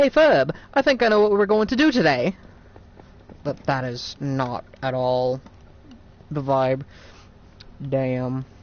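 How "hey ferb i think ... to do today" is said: put-on botched, high, swooping animated kid voice. Quoting a cartoon catchphrase, trying again at the voice: attempted cartoon kid voice. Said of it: "I can't do the voice".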